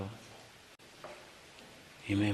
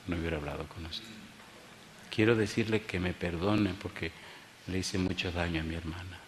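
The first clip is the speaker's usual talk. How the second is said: tearful confession; 4 semitones lower, 8 dB quieter than usual. Retold or imitated. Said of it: "llorando me dice".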